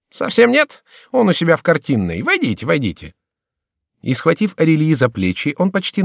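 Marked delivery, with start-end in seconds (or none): 0.1-3.1 a hint of a lazy, mocking young noble, higher; airy, careless courtier teasing the visitor; lightly voiced idle courtier. Шомберг teasing the musician, lightly raised courtier voice. Шомберг pushes Арельи inside.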